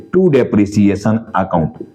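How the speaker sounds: each word drawn out slowly for writing down; slow dictation. Shown as a demonstration. Teacher dictating entry to students, slow and deliberate.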